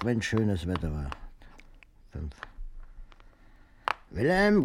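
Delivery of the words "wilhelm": hoch und laut gerufen, keifende Ehefrau; Oma ruft. Retold or imitated. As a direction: nachgeahmter schriller Ruf der Oma. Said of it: "rief sie dann". (Oma ruft laut und hoch nach Wilhelm)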